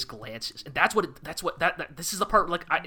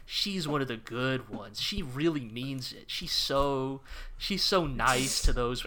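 lower, slow, syrupy mock reassurance; mock reassuring show voice; 4 semitones lower than usual. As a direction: talk down like a preachy show. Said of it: "the show's trying so hard to convince you".

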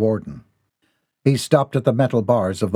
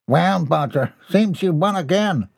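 higher, resigned card player; conceding; 6 semitones higher than usual. Acted. Hanson grudgingly concedes to Bodger, a touch higher. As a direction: concede the loss with a sigh. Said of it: "Hanson conceded".

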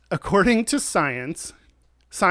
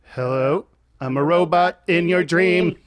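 robot voice; 2 semitones higher, 4 dB louder than usual. Acted. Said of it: "That was the dream robot".

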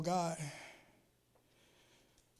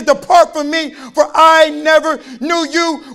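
voice of the Lord; 8 semitones higher, 19 dB louder, slower than usual. Retold or imitated. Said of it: "And he says".

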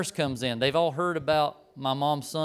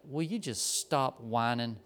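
retold disgust; 2 semitones lower, slower than usual. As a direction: imitate a fed-up nurse dragging out each word. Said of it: "with this disgusted look".

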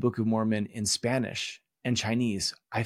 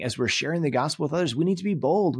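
mock preacher pushing hard on need, higher; emphatic preaching; 5 semitones higher, faster than usual. Teacher imitating a Mexican speaker urging boldness, emphatic. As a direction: retell the speaker's bold, emphatic plea, a touch hammed-up. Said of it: "the speaker really emphasized this".

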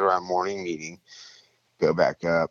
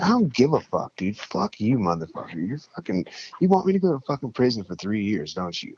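angry retold rant, pitched up; pissed off; 4 semitones higher than usual. Accusing his roommate of risking his freedom, pissed off. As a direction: act out cursing someone out in indignation. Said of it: "I'm fucking pissed off".

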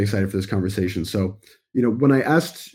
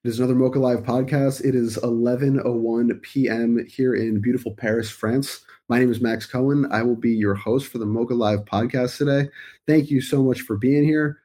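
upbeat podcast host; 4 semitones higher than usual. Real, not acted. Host opens the live show.

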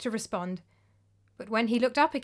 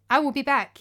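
bright, lifted and a little louder; happily; 4 semitones higher, 6 dB louder than usual. Acted. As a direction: say it gladly, looking forward to returning. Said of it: "he said happily".

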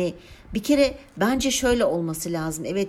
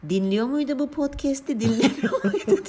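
laughing; 7 semitones higher than usual. Real, not acted. Imagined listener, laughing.

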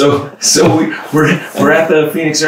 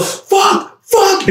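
pained curse. Retold or imitated. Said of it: "I was all".

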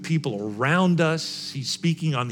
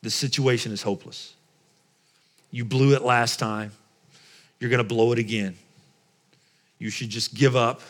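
low-key, discouraging voice in spaced-out statements; lightly voiced enemy; 3 semitones lower than usual. Enemy telling the believer to give up, lightly voiced and subdued. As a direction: deliver each discouragement separately, with pauses between. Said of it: "the enemy's voice sounds like this".

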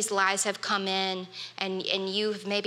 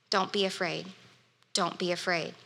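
soft, calm, reassuring, a bit quieter; gentle reassurance; 4 semitones lower, 5 dB quieter than usual. Retold or imitated. Pastor softly voicing Jesus's comfort to listeners, reassuring. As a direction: lay each one down gently like a comfort.

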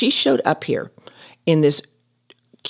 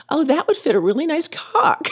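imagined hygienist thought; 9 semitones higher than usual. Pretend. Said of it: "dental hygienist's thoughts".

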